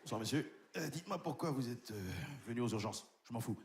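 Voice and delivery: low, cold contemptuous doctor; a hint of a deep, disdainful doctor; arrogant doctor House. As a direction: sneer as the nasty TV doctor. Doctor to patient.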